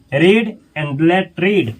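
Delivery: drawn out, word by word; slow model reading. Shown as a demonstration. Teacher drilling the phrase for students, very slow. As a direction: say it slowly for learners. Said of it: "teacher models the English phrase".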